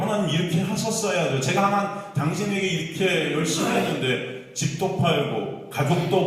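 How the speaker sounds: acted high-pitched rebuke, pressing on; indignant scolding. Believer reproaching God after giving up house and family, indignant. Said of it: "하고 막 꾸짖는 거예요".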